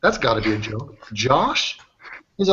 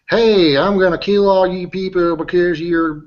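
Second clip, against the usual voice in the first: mocking her black guy voice; 5 semitones higher, 3 dB louder, slower than usual. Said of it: "that was her black guy voice".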